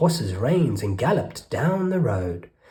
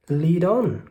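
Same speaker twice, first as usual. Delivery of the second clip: eager cry; 6 semitones higher, 4 dB louder than usual. Acted. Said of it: "cried the rat".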